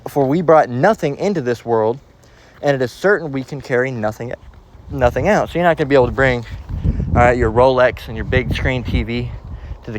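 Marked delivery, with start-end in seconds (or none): 0.1-5.5 measured reading of scripture. Acted. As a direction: read the verse with weight. Reads scripture aloud.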